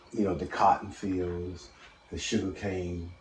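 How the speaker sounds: faint and distant, off-mic; speaking away from the phone; phone held away. Real, not acted. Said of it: "Speak closer to the phone".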